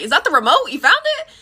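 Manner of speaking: sharp high rise of astonishment; amazed disbelief. Retold or imitated. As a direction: gasp it out in disbelief. Amazed at found remote.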